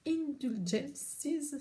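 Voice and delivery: «Indulgences» dit lentement, à l'anglaise, plus aigu; prononciation anglaise hésitante. Real, not acted. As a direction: articuler «Indulgences» avec un accent anglais maladroit. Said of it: "Désolée pour mon vieil accent pourri". («Indulgences» à l'anglaise, lent et hésitant)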